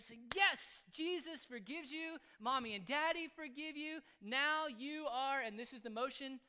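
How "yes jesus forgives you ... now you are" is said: high, loud, drawn-out cheer; jubilant celebration. Retold or imitated. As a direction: celebrate with a child, slowly and big. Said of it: "then we start celebrating".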